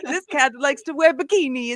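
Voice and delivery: a hint of a Swiss host telling his running joke; mock Swiss accent, half-hearted. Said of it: "I can't do the accent".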